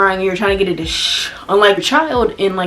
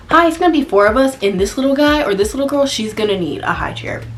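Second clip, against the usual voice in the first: model customer line; 5 semitones higher than usual. Shown as a demonstration. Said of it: "Just say".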